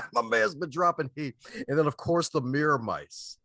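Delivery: laugh, then crow it high and loud; real laughing praise. Real, not acted. Co-host hyping his friend's one-liners, laughing.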